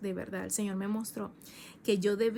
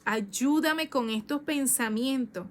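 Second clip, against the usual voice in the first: tearful plea; 3 semitones higher, 3 dB louder, slower than usual. Retold or imitated. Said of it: "yo recuerdo que yo lloraba".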